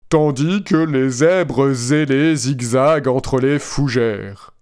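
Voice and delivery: slow, even machine voice; robot voice. Retold or imitated. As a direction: read it like a chatbot. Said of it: "avec ma belle voix de robot".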